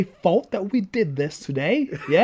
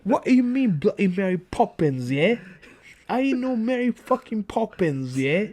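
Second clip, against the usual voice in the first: mock Cockney; 3 semitones higher than usual. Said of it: "I'm Cockney, yeah?".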